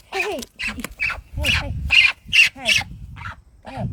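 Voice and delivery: hey hey, calling high to the bird. Real, not acted. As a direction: call her high and quick to settle her.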